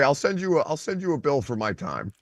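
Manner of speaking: muffled, over a Zoom call; like a bad Zoom connection. Real, not acted. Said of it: "your muffled Zoom voice".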